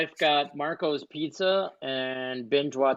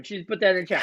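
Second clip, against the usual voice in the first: ordinary talk, nothing marked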